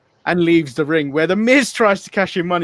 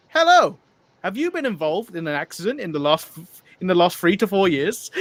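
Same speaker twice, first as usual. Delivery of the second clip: robocall voice. Retold or imitated. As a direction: play the automated caller, laughing. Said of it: "It's like".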